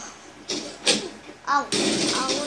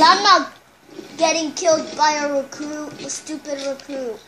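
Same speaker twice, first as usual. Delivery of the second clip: raging gamer; 5 dB louder than usual. Real, not acted. Angry at being killed.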